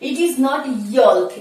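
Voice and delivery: slow, deliberate English; careful slow classroom English; slow teaching read. Shown as a demonstration. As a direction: spell it out slowly for learners. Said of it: "ইয়ক".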